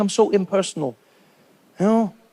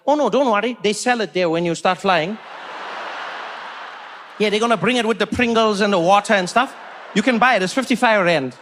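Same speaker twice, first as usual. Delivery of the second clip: serious neighbour. Retold or imitated. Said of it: "he said it so seriously".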